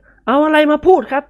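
mild surprised protest; exclaiming. Acted. Nikorn exclaiming against the elders. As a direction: scoff at the superstition. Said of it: "นิกรอุทาน".

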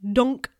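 a punchy cartoon bonk; impact noise. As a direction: knock it out loud. Voicing the stick hitting the spider.

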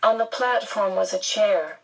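usual speaking voice

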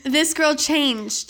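slow, drawn-out teasing announcement. Real, not acted. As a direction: drag it out proudly. Teasing praise of friend.

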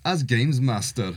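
badly faked Scottish accent through a laugh; slow, hopeless stab at Scottish. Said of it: "I can't do a Scottish accent".

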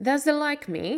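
light Yorkshire dialect question. Acted. Mary asks Dickon in Yorkshire dialect, lightly voiced. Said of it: "a question in Yorkshire dialect".

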